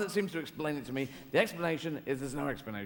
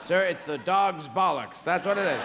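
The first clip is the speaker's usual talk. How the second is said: emphatic astronaut; 6 dB louder than usual. Retold or imitated.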